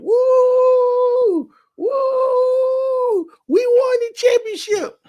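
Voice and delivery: high, loud whooping celebration; excited cheering. Real, not acted. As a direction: cheer like your team just won it all. Cheering with baby over game.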